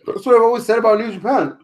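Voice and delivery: burp breaking through words; talking through a burp. Real, not acted. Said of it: "Excuse me, I'm burping".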